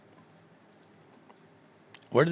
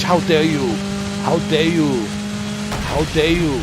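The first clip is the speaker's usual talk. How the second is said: shaking with anger; 2 semitones higher than usual. Real, not acted. Keeps raging at the rival.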